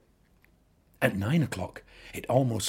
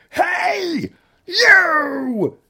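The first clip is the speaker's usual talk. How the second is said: challenging shout; 14 dB louder than usual. A narrator's reading. Ladybird picks a fight.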